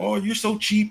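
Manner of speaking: shrill, high-pitched, furious angry yell. Retelling a grown man in the arcade yelling at the seven-year-old speaker, imitating a man yelling. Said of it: "He was yelling at me like".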